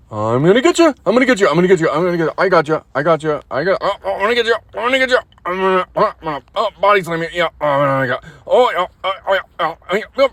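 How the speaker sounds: loud teasing chase voice, I'm gonna get you; playful taunting. Real, not acted. Owner play-wrestling with his dog, loud playful taunt. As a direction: hype up a play fight, grinning.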